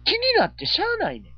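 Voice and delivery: high, fast, laughing through it. Real, not acted. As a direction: crack up mid-sentence. Laughing while telling.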